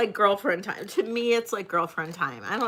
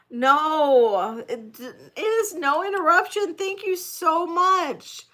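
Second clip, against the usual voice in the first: close to tears; 8 semitones higher, 5 dB louder, slower than usual. Real, not acted. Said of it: "wanna cry right now".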